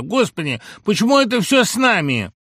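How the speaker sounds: very high, loud hysterical shout; mother flaring up. Acted. Mother blaming her son on the phone, high furious shout. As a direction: explode at him in fury. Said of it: "воспламенилась".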